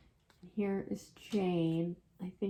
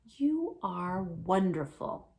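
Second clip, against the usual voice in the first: solemn; 4 dB louder, slower than usual. Acted. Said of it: "very solemnly".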